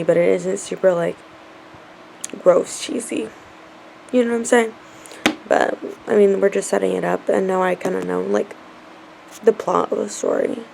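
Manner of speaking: soft tired late-night voice; sleepy whisper. Real, not acted. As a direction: whisper so nobody wakes.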